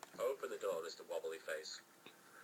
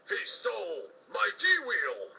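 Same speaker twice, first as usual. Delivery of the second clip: dismayed cry; 6 semitones higher, 5 dB louder, much slower than usual. Acted. Officer crying out.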